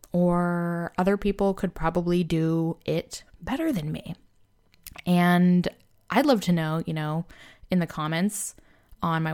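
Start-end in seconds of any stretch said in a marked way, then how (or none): 1.0-4.1 put-on Valley Girl voice. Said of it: "I'm just gonna do this Valley Girl voice".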